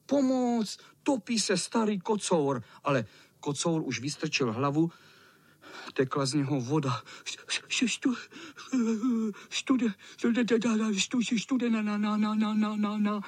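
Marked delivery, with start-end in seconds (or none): 0.1-2.6 calling for help. A narrator's reading. 7.2-13.2 high, stuttering chatter from the cold; shivering cat stammering with chattering teeth. A narrator's reading. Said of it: "Drkotal zuby".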